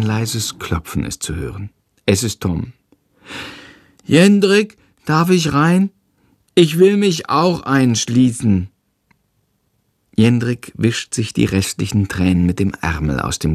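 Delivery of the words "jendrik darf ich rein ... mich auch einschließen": put-on young brother, pitched well up; small boy asking at the door; little boy voice. Tom knocking on his brother's door, little boy voice.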